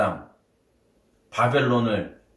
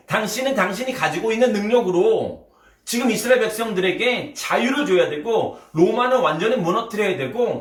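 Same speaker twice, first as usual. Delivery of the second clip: heated, higher-pitched scolding of Jesus; rough protest; 5 semitones higher than usual. Acted. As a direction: grab him by the collar with your voice. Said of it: "거칠게 소리를 높여서".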